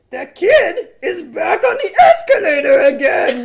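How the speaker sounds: shrill, booming, very high, loud and very slow. Reading a fan-sent movie line in a Grover voice. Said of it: "get into the Grover voice".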